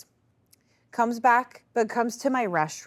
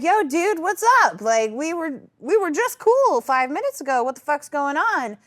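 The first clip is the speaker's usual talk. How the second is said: retold confrontation; 9 semitones higher, 5 dB louder than usual. Confronting aggressive customer.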